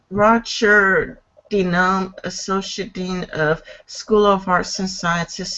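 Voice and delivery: careful, halting read-aloud; article reading. Real, not acted. Host reading a class description aloud, measured. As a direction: read it out evenly, phrase by phrase.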